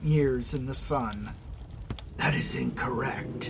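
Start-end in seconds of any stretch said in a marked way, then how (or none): 2.2-3.5 breathy hushed whisper. Acted. Scarab answers quietly.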